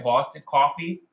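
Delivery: tentative mock Boston accent. Shown as a demonstration. Host testing an imitation on the audience, mock Boston accent. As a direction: try out a Boston accent, with a questioning rise. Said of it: "if that's New England accent or not".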